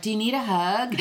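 teasing quote breaking into laughter; laughing imitation. Wife retells husband's daily hug joke, laughing imitation. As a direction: mimic the running joke, laughing.

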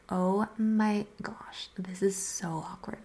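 slow, stretched-out "oh my gosh"; drawn-out dismay. Retold or imitated. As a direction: drag out the words in awkward disbelief. Reacting to his angry texts.

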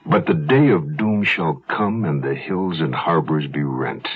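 put-on slow, solemn reading of an old verse; poem recitation. Narrator reciting an ancient Irish poem to the listeners, slow and solemn. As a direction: intone the verse like a bard.

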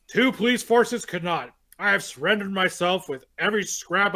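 dramatic reading. Acted. Reads the book's diary entries.

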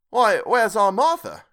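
a father calling for his daughter; Bob crying out. A narrator's reading. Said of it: "cried Bob Cratchit".

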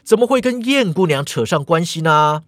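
calling out loudly on purpose so others hear; deliberately loud. Acted. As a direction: raise the voice a bit, meant to be overheard. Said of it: "郑瑶故意大声喧哗呀".

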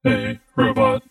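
slow, toneless talking machine; mechanical robot voice. A narrator's reading. A talking robot announces itself to visitors, slow and mechanical. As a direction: boom it out word by word, without intonation. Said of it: "mechanically timbered voice boomed out".

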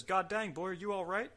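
high-pitched retold referee; referee's voice. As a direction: voice the concerned referee, pitched well up. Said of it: "He says".

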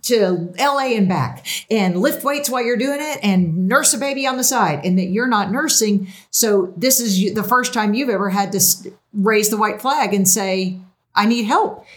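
therapist voice. Pretend. Host puts on her therapist hat for her guest, lightly calm counselor voice. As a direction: lightly play the therapist laying out her insight. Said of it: "So my therapist hat says".

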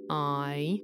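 "I" drawn from ah into ee; bending vowel. Shown as a demonstration. Showing non-linguists the glide, bendy "I". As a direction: bend "I" from one vowel to the next. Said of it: "goes from an ah to an i sound".

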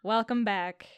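weary, slowed-down podcast welcome; resigned. Real, not acted. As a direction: greet them like you've given up. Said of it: "Cloud, you sound so resigned".

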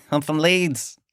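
slow, drawn-out mock Leeds accent. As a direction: stretch it out in a dubious Leeds accent. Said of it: "Is that even a Leeds accent?".

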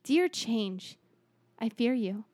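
grand speech. Acted. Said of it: "Was this an Obama speech?".

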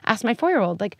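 put-on a bright sing-song quiz for a four-year-old; imitating a keen parent trying the dinner question; eager parent. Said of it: "someone listening to this is like".

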